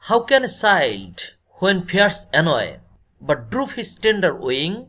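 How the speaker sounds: slow, measured reading of verse; deliberate classroom poem reading; poem recitation. Acted. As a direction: read the line out slowly, phrase by phrase. Reads the poem line aloud.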